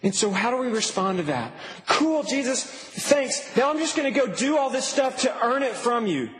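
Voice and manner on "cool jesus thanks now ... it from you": higher, breezy offhand thanks; mock casual reply. Believer shrugging off Jesus' gift, flippant mock tone.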